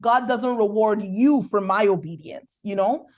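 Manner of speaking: ordinary talk, nothing marked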